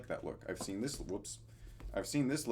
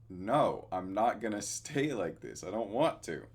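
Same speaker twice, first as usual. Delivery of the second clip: louder, firm no with a laugh; emphatic refusal; 6 dB louder, slower than usual. Retold or imitated. Telling Pouty he won't keep the long hair, loud refusal. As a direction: push back hard, half laughing. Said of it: "And I'm like".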